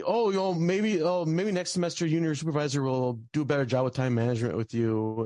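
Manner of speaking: lightly voiced condescending supervisor; mocking the supervisor. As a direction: parody her condescending advice. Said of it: "She's saying, like".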